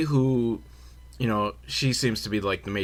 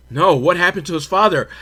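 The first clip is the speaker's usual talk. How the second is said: curious gossip; 4 semitones higher, 5 dB louder than usual. Retold or imitated. Acted gossip asks for the story.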